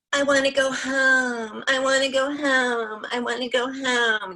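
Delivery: put-on high, slow, drawn-out whine of a fed-up kid; whining child. Little son on mom's lap whines to go home, high and drawn out. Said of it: "He's kinda whining".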